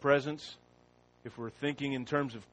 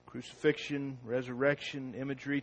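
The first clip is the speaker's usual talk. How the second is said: usual speaking voice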